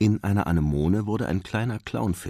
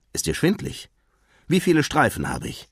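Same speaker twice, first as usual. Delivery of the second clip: higher-pitched worried father's questions; anxious fussing; 8 semitones higher than usual. Acted. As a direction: test your child with rising concern. Anxious father checks on son. (besorgt nachfragend)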